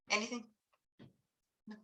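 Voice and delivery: usual speaking voice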